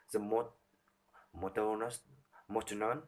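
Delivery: a quiet monotonous drone; flat monotone. Shown as a demonstration. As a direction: drone it without any tune.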